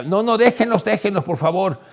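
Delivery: high, loud pleading cry of no and let them go; panicked high shouting, begging the crowd; retold hysterical yell. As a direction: imitate a frantic woman shouting for the crowd to back off. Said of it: "una mujer rubia ... que gritaba".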